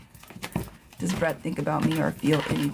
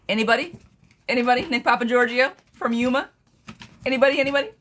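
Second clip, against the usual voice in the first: calling out; 5 semitones higher, faster than usual. Real, not acted. Tarot reader calling out to her live chat. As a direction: call out to the viewers, climbing higher.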